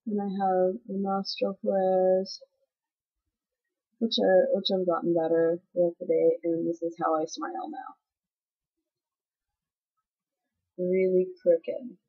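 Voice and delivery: talking out of the side of the mouth; lopsided speech from a palsied face; out of mouth corner. Real, not acted. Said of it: "I'm talking out of the side of my mouth".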